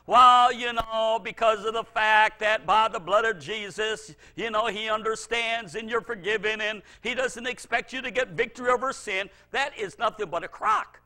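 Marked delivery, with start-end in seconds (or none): 0.1-9.3 mock false teaching. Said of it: "new doctrines that basically teach us".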